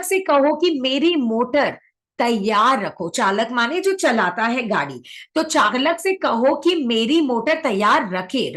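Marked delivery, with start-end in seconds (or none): 5.3-8.5 slow corrected dictation. Shown as a demonstration. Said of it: "रखो नहीं, रखे।".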